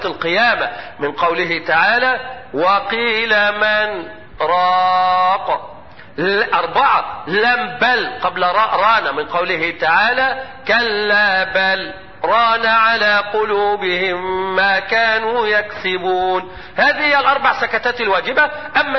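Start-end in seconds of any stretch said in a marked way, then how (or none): 2.5-5.7 slow chanted tajwid recitation; Quran recitation. Shown as a demonstration. Recites verse. 10.7-16.6 slow chanted tajwid recitation; Quran recitation. Shown as a demonstration. Recites verse.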